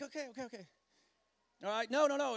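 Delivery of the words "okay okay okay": soft, meek giving in; cowed compliance. Acted. Us answering the angry guy, meekly quiet. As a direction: back down quietly under a telling-off. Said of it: "We're like".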